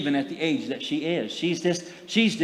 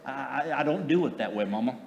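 put-on young mom dismissive; 2 semitones lower, 5 dB quieter than usual. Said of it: "the younger generation says".

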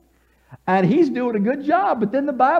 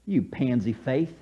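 low, soft, deliberate dig; understated rebuke; 8 semitones lower, 7 dB quieter than usual. Acted. Preacher rewording Jesus' rebuke to Peter, quiet chiding. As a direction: say it softly and lower. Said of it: "This is how I would say it".

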